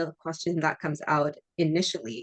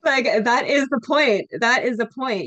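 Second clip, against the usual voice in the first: higher and louder, emphatic; excited emphasis; 7 semitones higher, 6 dB louder than usual. Real, not acted. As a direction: insist on the point, raised. Emphatic point, laughing.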